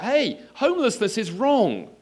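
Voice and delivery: high, loud, drawn-out shout; calling out. Acted. Passer-by shouting to other pedestrians, calling out. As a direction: holler it slowly across the street. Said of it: "you sort of call out".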